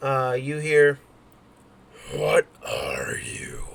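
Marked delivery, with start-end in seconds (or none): 2.1-3.6 strange, uncanny whispered voice. Storyteller voicing a creature that looks at a player, in a creepy, strange voice. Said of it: "in this creepy, strange voice".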